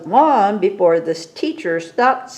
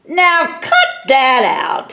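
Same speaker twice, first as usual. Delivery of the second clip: higher, louder stern order; principal scolding; 7 semitones higher, 4 dB louder than usual. A narrator's reading. Principal scolds the dragon after his tie burns. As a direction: snap at her to stop.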